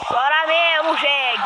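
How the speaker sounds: loud "chora mesmo" jeer; taunting shout. Pretend. Player jeers at the deer from the bridge. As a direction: bark the taunt at it.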